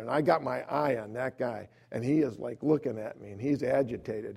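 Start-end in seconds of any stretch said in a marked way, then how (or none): none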